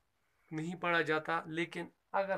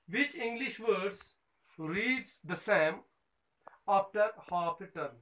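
very slow, every word spaced out and carried; slow dictation; 3 semitones higher, much slower than usual. Shown as a demonstration. Teacher reading the textbook question to her pupils, very slow dictation. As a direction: dictate the question so children can write it down.

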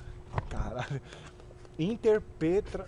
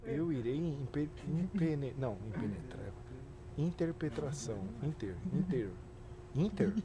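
sounding out words; 4 semitones lower, 9 dB quieter than usual. Shown as a demonstration. (tentando devagar, hesitante)

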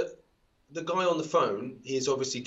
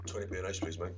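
faking a deep voice, much softer; mock deep voice; 5 semitones lower, 9 dB quieter, faster than usual. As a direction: kid playing grown-up in a low voice. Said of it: "I don't even talk that deep now".

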